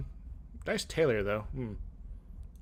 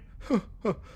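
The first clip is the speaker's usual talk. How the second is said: bitter laugh; 7 semitones higher than usual. Acted. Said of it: "laughs bitterly".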